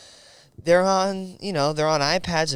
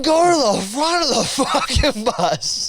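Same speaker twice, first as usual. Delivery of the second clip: put-on loud, slow, bossy big-kid order; 9 semitones higher, 4 dB louder, slower than usual. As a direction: boss everyone to the front. Kid claiming the back seat.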